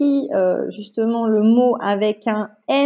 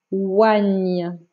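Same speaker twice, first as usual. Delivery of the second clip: lower, drawn-out syllable; careful dictation; 5 semitones lower than usual. Shown as a demonstration. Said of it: "attention, écoute bien".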